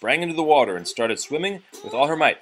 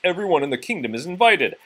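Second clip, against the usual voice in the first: raised, higher proclamation; announcing; 6 semitones higher, 4 dB louder, faster than usual. A narrator's reading. Nobleman announcing the party to the Duke's house, loud proclamation. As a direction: call it out to the whole house. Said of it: "he announced".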